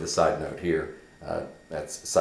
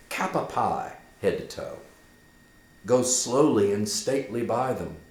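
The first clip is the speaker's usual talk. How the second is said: higher, hushed dread in the telling; Horatio's ghost tale; 4 semitones higher, 4 dB louder than usual. Acted. Horatio recounting the ghost to Hamlet, awed and dramatic. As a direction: tell it like a ghost story.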